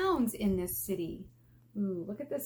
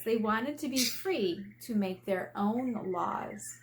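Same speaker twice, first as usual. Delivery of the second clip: put-on lively storybook reading for kids; gently expressive read-aloud voice; reading aloud to children; 4 dB louder than usual. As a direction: read it like a picture book to a class.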